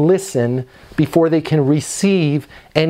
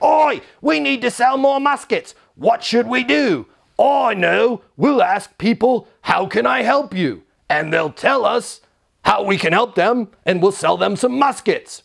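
higher-pitched hammed-up old-time shopkeeper; mock musket seller hatching a sales scheme; Ben Franklin's brother Robbie; 6 semitones higher than usual. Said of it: "when Ben Franklin's brother Robbie".

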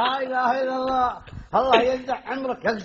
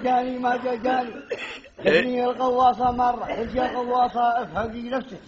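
poem recitation. Acted.

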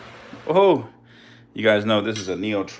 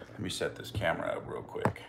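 muttered aside; 5 semitones lower, 11 dB quieter than usual. Real, not acted. Muttering while setting camera.

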